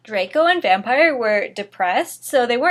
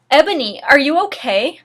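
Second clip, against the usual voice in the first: concerned; 4 semitones higher, 5 dB louder than usual. Acted. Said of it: "in a concerted voice".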